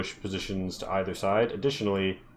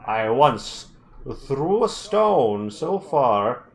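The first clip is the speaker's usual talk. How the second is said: boasting dwarf; 5 dB louder than usual. Acted. GM voices boasting dwarf chief.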